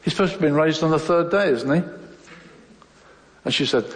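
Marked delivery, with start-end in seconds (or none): 0.0-1.8 quick, offhand recital; very casual. Retold or imitated. Teenager answering his sister's question about Jesus, very casual. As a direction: toss it off casually. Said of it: "I said very casually".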